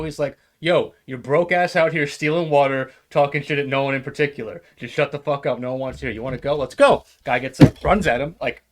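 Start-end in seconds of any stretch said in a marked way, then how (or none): 0.6-7.0 loud mock challenge, retelling a fight; retold confrontation. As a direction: act out a train passenger squaring up. Retold quarrel on the train.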